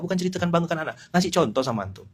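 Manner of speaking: usual speaking voice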